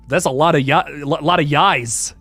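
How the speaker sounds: misreading wise as "yais". Real, not acted. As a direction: say "yais" rhyming with "ice". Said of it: "why would I say yais".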